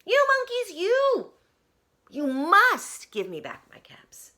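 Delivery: high, loud furious shout; shouting peddler. Acted. Peddler shouts at the monkeys for his caps. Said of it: "he shouted".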